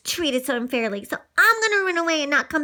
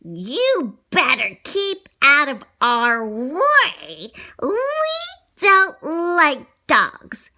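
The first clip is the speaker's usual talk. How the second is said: menacing cats; much slower than usual. Acted. Two cats threaten Lady.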